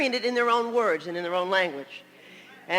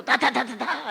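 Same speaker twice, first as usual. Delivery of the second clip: rhythmic run of nonsense syllables; punchy stand-in babble for speech; imitated enthusiastic syllables. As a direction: mimic lively speech with "da da da". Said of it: "I'll do it the-, enthusiastically".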